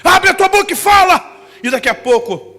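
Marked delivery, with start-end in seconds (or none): 0.0-1.4 loud, high preacher's command; a preacher commanding the man to open his mouth; commanding shout. Retold or imitated. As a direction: order him to speak out loud. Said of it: "Ele falou".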